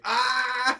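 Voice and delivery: high, drawn-out Minnesota "Ah!"; Minnesota accent. Retold or imitated. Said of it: "he was like".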